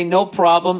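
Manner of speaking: chipper, polite "No problem"; customer service voice. Retold or imitated. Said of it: "in my best customer service voice".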